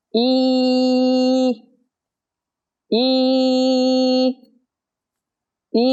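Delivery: "Y" stretched out for about three seconds; held Y. Shown as a demonstration. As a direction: hold a long tense ee. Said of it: "kéo dài cái âm này ra khoảng ba giây".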